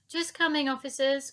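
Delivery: calling out. Acted. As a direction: call it sweetly through the door. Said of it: "called out Dotty".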